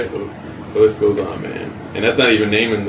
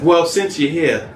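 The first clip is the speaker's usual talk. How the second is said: teasing Harley voice; 4 semitones higher than usual. Retold or imitated. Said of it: "she's like".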